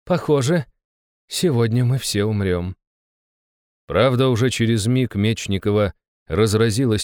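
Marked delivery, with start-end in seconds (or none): 0.0-2.8 composed, starting high and settling down; calm acceptance after a shock; surprisingly calm. A narrator's reading. Baroness after seeing the monster, surprisingly calm. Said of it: "на удивление спокойно произнесла".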